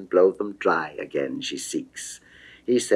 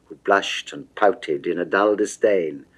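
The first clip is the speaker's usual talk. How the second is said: usual speaking voice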